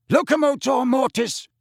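high, forceful incantation; spell casting. A narrator's reading. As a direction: cry out the spell at the target. Sirius casts a spell.

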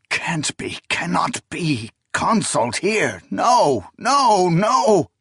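high, rising panicked denial. A narrator's reading. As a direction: climb into desperate panic. Character denying in terror.

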